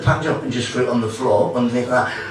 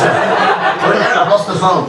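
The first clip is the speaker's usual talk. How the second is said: put-on slow drunk lament; 7 semitones higher, 4 dB louder, much slower than usual. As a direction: stretch it out like a lost drunk. Drunk friend voiced, slow.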